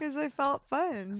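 put-on high, slow, soft, playful young voice.

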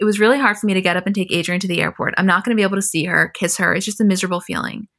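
ordinary talk, nothing marked

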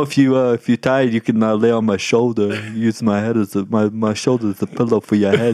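imitated monotone man's voice. Describing a man in the truck, imitating a monotone man. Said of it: "because he's so monotone".

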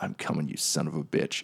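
hushed, happy mutter under the breath. Mid-hug, a woman speaks over someone's shoulder: muttering with a widening grin. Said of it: "she just mutters".

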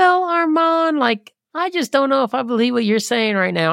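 put-on high Southern belle accent. Retelling how she would ask armand hard questions in the toughest deals, put-on southern belle accent. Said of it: "she'd come in with her little Southern accent".

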